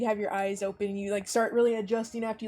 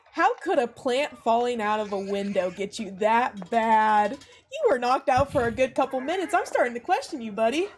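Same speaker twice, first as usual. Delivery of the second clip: lightly voiced teasing coworker, a bit raised; amused coworker; 4 dB louder than usual. Kane teasing his knocked-out coworker, lightly amused ribbing. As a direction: rib your buddy after a hearty laugh. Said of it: "he has this hearty laugh, and he's like".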